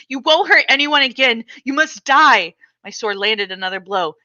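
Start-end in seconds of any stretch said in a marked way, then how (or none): 0.1-2.5 shouting in mock battle. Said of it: "I shouted".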